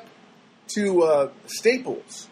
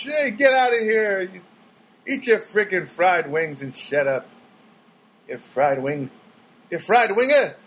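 rude dismissal; 4 semitones higher than usual. Retold or imitated. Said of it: "Which is pretty much".

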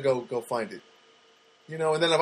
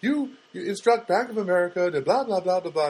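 bored script reading; 5 semitones higher than usual. Retold or imitated. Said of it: "she has to read this".

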